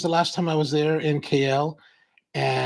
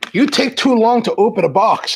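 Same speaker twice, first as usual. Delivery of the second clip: mocking viewer; 9 semitones higher, 6 dB louder than usual. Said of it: "He was like".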